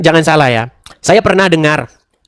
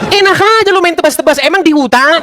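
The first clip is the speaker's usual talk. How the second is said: higher, laughing mockery; laughing scoff; 7 semitones higher than usual. Real, not acted. Mocking the sword story to viewers, laughing scoff.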